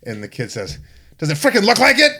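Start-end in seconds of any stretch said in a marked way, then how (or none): 1.2-2.1 high, loud mock-indignant retort; acted punchline, pitched way up; cheeky kid. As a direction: pipe up as an exasperated brat. Kid snaps back at salesman.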